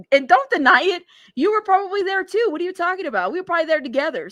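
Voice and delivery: playful teasing. Real, not acted. Teasing chatter who called her drunk.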